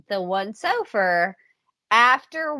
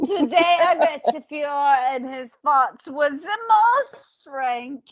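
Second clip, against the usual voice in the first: mock diary; 4 semitones higher than usual. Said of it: "Morell wrote".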